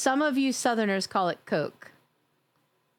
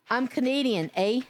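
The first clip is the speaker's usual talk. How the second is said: put-on Canadian accent. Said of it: "Let me get my right Canadian on".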